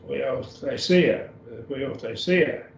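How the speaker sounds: huiothesia said syllable by syllable, hwee-oh-the-SEE-ah; slow pronunciation demo. Shown as a demonstration. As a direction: spell out huiothesia slowly. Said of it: "teacher models Greek word".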